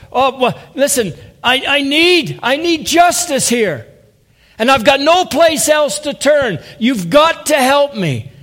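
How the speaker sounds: pleading cry, high and loud. Retold or imitated. Widow pleading to the judge for justice, loud desperate cry. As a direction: beg for justice with everything you have. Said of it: "And she cried out".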